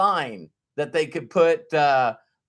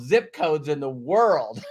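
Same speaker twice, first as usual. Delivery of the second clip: laughing. Real, not acted. Laughing about expensive zip codes.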